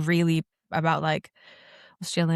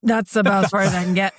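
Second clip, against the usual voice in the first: talking while inhaling; 4 dB louder than usual. Real, not acted. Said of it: "Let's see how far I get".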